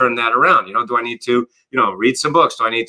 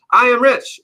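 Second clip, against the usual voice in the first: mock affirmation; 11 semitones higher, 4 dB louder than usual. Shown as a demonstration. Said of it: "And your brain goes, "No, you're not".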